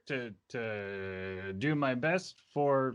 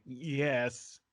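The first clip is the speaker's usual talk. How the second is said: drawn-out yes, catching in the throat; caught in throat. Acted. Drunk witness trying to answer his friend, word caught in throat. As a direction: struggle a little to get the word out. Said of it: "it's getting caught in his throat".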